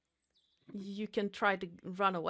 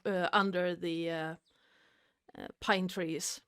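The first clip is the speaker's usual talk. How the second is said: ordinary talk, nothing marked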